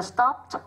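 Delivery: "stopped" ending in a t sound. Shown as a demonstration. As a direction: say "stopped" as one syllable, closing on "pt". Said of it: "phát âm là t".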